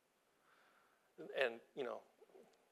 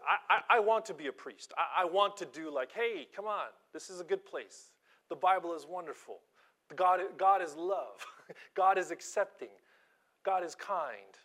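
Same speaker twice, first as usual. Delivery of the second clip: high, loud, gushing mock priest; hammed-up sunny preacher voice; eager naive priest; 4 semitones higher, 5 dB louder than usual. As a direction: play the over-eager do-gooder preacher.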